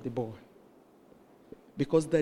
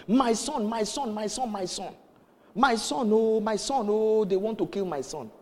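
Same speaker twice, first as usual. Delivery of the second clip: pleading higher-pitched wail at ordinary volume; retold distraught shouting; 4 semitones higher than usual. Woman bursts in about her son, mock frantic cry. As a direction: imitate a frantic mother's repeated cry. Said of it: "She just kept shouting".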